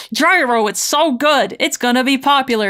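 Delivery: a friend hyping up his gyro idea; voicing Johnny. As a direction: pitch Johnny up and sell it. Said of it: "And Johnny's like".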